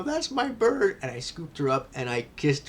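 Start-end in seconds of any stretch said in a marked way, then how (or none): 0.0-1.0 high, loud cry of recognition; overjoyed, voice leaping up; excited exclamation. Retold or imitated. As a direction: call it out across a crowded patio. Acts out claiming the bird.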